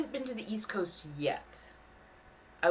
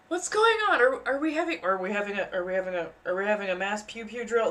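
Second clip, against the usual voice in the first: mock confusion; 3 semitones higher, faster than usual. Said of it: "I'm like".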